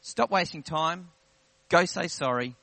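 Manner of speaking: firm orders, each set apart; weighty divine command. Retold or imitated. Preacher repeating what God told him in prayer, firm weighty command. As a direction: punch the first word of each command. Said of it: "There's a weight that comes with God's words".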